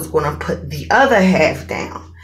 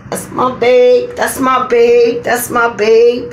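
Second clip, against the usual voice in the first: proud praise; 4 semitones higher, 3 dB louder than usual. Real, not acted. Praising boyfriend for TV deal.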